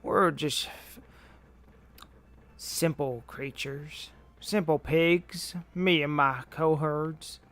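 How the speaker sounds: slow country-accented cartoon villain; King K. Rool. Player imagining the game villain's voice, slow country accent. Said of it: "Let's imagine that's how King K. Rool talks".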